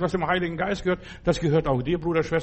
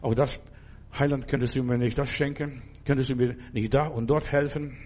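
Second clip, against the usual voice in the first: pleading prayer; 4 semitones lower, 5 dB quieter than usual. Pretend. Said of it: "wenn du ihn presst".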